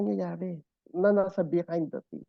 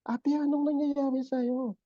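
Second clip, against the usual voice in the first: slow, higher, tender question; gentle concern; 5 semitones higher, slower than usual. Retold or imitated. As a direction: agent gently asking the bruised woman. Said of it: "Sabi ko".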